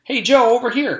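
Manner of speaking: high, loud call across the room; loud high kid call. Acted. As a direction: wave a friend over. Called John.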